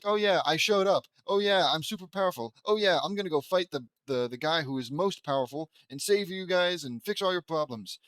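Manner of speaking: sneering send-up of a show-off; mock bragging. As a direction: lampoon a smug overpowered hero. Mocking the hero's arrival.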